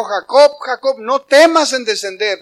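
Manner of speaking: God calling. Acted. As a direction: call out firmly by name. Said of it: "pero Dios le habló y le dijo".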